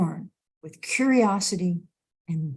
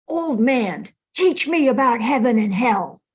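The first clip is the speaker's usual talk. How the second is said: put-on raised, commanding bark at an old man; barking demand; 4 semitones higher, 5 dB louder than usual. Samurai barks his demand at the meditating monk, commanding. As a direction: order him like an arrogant warrior. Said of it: "He barks out".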